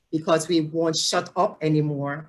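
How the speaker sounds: light Jamaican accent slipping out; lilting Jamaican English, unplanned. Real, not acted. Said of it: "my Jamaican accent coming out".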